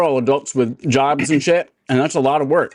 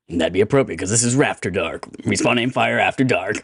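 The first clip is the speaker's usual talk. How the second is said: sultry narrator; 4 semitones lower than usual. Acted. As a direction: purr it like a late-night radio DJ. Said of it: "sexy, sultry chip voice".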